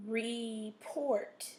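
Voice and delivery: "Report" stretched out, weight on PORT; stress on second syllable. Shown as a demonstration. Teacher showing the vowel pattern, "Report" stressed on PORT. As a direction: scoop "Report" in two slow parts, landing on PORT. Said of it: "your stress in the second syllable".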